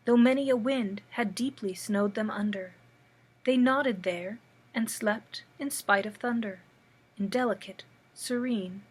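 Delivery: measured verse with pauses between lines; poem reading. Acted. Reads a poem aloud.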